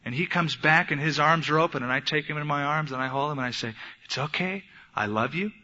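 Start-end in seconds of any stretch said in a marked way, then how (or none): 4.1-5.5 tender reassurance. Retold or imitated. Father comforts his sobbing son.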